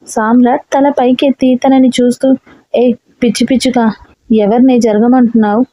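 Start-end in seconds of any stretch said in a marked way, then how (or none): none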